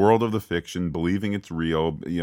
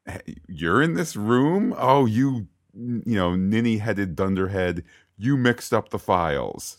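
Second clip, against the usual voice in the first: mock scolding boss; 2 semitones higher than usual.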